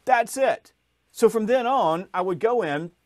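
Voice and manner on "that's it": slow, high and louder, eureka moment; sudden realization. Retold or imitated. Salesman realizing barcodes fail, slow stunned eureka. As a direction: let the idea dawn on you out loud. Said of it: "it was like".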